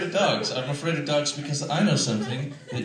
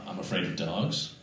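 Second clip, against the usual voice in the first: low, quiet, hesitant confession; reluctant admission; 4 semitones lower, 10 dB quieter than usual. Pretend. Comic confessing a fear to the crowd, reluctant and quiet. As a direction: admit it softly, with difficulty. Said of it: "I have trouble even now admitting things".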